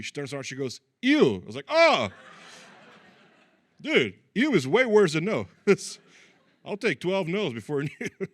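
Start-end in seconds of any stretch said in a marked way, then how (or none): 1.0-1.4 high, loud, grossed-out ew; girl recoiling, a loud high ew; disgusted ew. Retold or imitated. Girl's disgusted reaction. 1.7-2.1 deflated oh. Retold or imitated. His deflated reaction. 3.8-7.9 indignant punchline. Real, not acted. Punchline rant.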